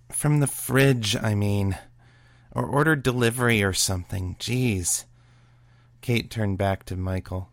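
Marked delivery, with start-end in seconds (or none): 0.1-5.0 louder exasperated. Acted. Kate exasperated with Morgan.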